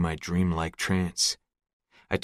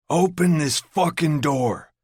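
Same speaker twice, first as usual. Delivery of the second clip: furious roar, slow and much louder; 9 semitones higher, 5 dB louder than usual. A narrator's reading. Trapped man roaring at him, furious. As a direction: Jameson roaring at the locked door. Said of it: "Jameson roars".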